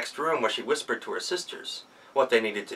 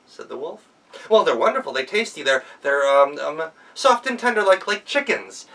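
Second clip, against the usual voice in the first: put-on high, loud child's voice; sweetly scheme like a child; girl tricking the wolf with a request; clever girl; 4 semitones higher, 5 dB louder than usual.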